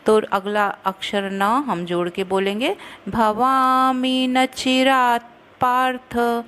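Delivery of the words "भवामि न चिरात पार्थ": चिरात पार्थ with half त run into प, slow; joined त-प. Shown as a demonstration. Teacher showing students the half त in चिरात पार्थ. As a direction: join चिरात straight into पार्थ. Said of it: "त को आधा प से जोड़ के".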